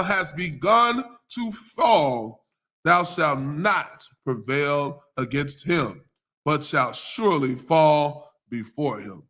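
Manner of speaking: slow, measured King James reading; solemn Bible reading voice; scripture reading. Acted. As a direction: read the verses with weight. Reads scripture passage aloud.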